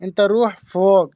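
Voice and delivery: slow, careful Arabic phrase; deliberate slow teaching take; slow repeat. Shown as a demonstration. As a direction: stretch each word so it can be copied. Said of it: "तो उसको बोलेंगे".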